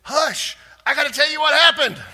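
high, loud call for silence; urgent command. Retold or imitated. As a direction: shout them down to speak. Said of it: "Peter says".

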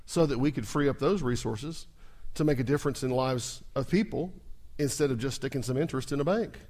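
ordinary talk, nothing marked

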